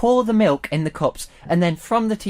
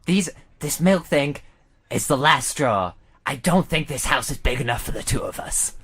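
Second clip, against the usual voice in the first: lightly voiced cowboy showdown; Wild West drawl. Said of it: "You're now in Wild West America".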